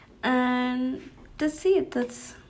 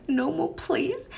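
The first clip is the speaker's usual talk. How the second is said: high, slow, crying plea to mom; pleading with mom not to break the ticket, tearful and high; 6 semitones higher, 3 dB quieter, slower than usual. Retold or imitated. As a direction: beg mom through tears, drawn out.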